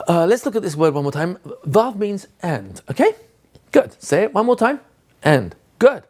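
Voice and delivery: fed-up teacher. Shown as a demonstration. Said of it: "clearly stating that you're fed up".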